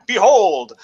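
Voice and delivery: loud, high proclamation, slowing down; fairground show announcer. Acted. Barker presenting a show at the Paris Fair, grandly proclaiming. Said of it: "one of the shows is like".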